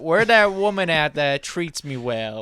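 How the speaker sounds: lightly voiced confused dog. Friend imagines dog looking for its owner, lightly voiced confused dog. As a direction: lightly play the searching dog. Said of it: "She looks at her and is like".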